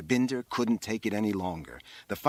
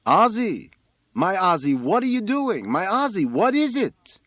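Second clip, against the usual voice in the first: high, loud wailing call; alarmed mother; 10 semitones higher, 8 dB louder than usual. A narrator's reading. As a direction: call up to your son in dismay. Distressed mother calls up to son.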